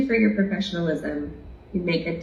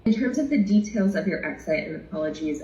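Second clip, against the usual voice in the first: hoarse voice. Real, not acted. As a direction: voice going hoarse. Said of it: "I'm losing my voice a little bit".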